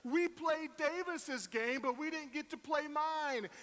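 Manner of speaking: put-on high, slow childish protest; whiny little girl. Daughter protesting bedtime to dad, high whiny complaint. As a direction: whine like an eight-year-old denied her turn. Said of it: "she was like".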